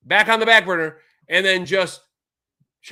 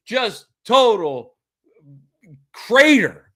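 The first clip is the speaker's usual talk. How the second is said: sarcastic drawn-out mockery; 3 semitones higher than usual. Sarcastic recap of Watson.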